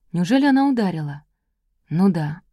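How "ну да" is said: ordinary delivery, nothing marked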